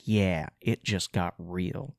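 mock-cool hero line; cool smug quote. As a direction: lay it out slow like a cocky heroine. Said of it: "a cool smirk on her face".

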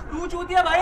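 angry shout. Real, not acted. Fight over grabbing the neck.

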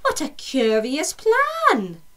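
put-on high, loud, pleading old lady voice; a fretful little old lady begging for help, pitched high; grumbling old lady.

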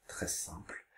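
whispered under the breath; whispered aside. Real, not acted. Teacher whispers an aside to pupils. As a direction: drop to a whisper, just an aside.

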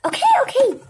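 high, whiny compliance; put-upon, high-pitched reply; exasperated giving-in. Acted. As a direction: answer a nagging parent in a high squeal. Child answers mother's shouted order.

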